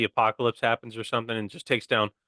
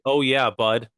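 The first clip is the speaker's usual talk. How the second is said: Canadian bud; 4 dB louder, slower than usual. Shown as a demonstration.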